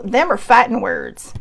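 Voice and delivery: slipping into a Southern US accent. Real, not acted. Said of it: "Southern accent comes out of me".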